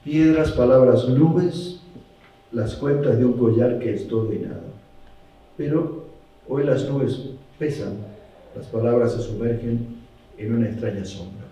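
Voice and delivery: measured verse, falling away toward the close; poem reading. Acted. Quoting a tanka to show the contrast, measured recital. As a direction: recite in short phrases with pauses.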